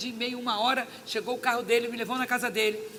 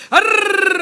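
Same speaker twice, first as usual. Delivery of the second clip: high, loud rolled trill; imitated motor noise; 10 semitones higher, 16 dB louder than usual. Imitating the intercessor's sudden noise, motor-like trill. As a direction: trill loudly like a sputtering scooter. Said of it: "Daqui a pouco ela fez".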